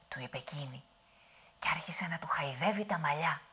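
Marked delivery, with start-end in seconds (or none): none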